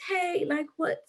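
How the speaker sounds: mock British mom calling her kid to eat; mom's British accent. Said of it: "like, a British accent sometimes".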